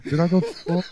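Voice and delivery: smoker's voice. Real, not acted. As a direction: rasp it like a heavy smoker. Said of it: "You sound like a smoker".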